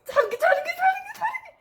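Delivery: rising mock taunt. Teasing sister about burning.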